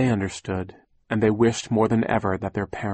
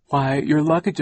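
put-on higher, louder older-relative character voice; Aunt Josephine; 6 semitones higher, 5 dB louder than usual. A narrator's reading. Aunt answering the children about luggage, character voice. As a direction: lift it as if stating the obvious.

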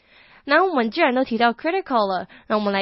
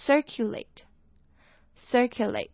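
circulate stressed on cir, said slowly; front stress; slower than usual. Shown as a demonstration. Teacher shows learners the circulate stress, slowly. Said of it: "重音就是在前面".

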